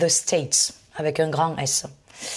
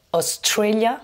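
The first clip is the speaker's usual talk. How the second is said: Australia, TRA raised and punched; stress on second syllable; 4 semitones higher, slower than usual. Shown as a demonstration. Teacher modelling the country in English, stress on TRA in Australia. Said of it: "j'ai accentué sur la deuxième".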